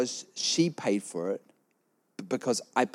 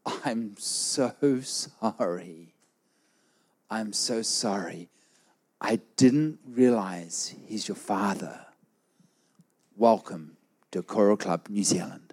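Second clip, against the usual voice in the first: fawning apology; slower than usual. Retold or imitated. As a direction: draw out the apology as if embarrassed. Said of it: "And the lady goes".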